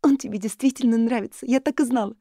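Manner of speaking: высоко и громко, в восторге; торжествуя, что угадала; восторженный визг. A narrator's reading. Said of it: "Элис взвизгнула". (Элис в восторге разоблачает подругу)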